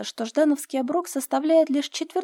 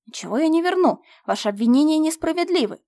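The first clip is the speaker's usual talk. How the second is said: higher and louder, furious yelling; shouting; 5 semitones higher, 5 dB louder than usual. A narrator's reading. Steward refuses to return the money, shouting. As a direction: shout back in defiance. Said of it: "уже закричал Дерюгин".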